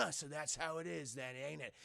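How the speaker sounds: low, soft resigned mutter; resigned quiet. Retold or imitated. Dying villain quietly accepting his end. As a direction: mutter it like a beaten man accepting fate.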